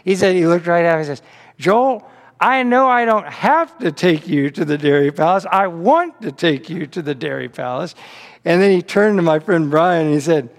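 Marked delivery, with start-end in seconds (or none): 1.6-8.0 lightly imitated Southern accent, leaning on HAVE and WANT; Uncle Howard. Uncle correcting his great-nephew, mock Southern accent. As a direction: play the insistent Southern uncle, mildly. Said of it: "by the way, Southern accent".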